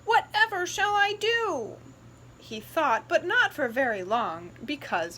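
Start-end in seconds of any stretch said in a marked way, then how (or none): 0.0-1.8 higher, louder mock despair; mock wailing brother. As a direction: ham up the worry.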